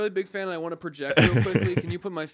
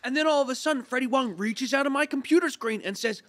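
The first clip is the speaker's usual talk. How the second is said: mock dreamy fan voice; 9 semitones higher than usual. S2 continues the fantasy.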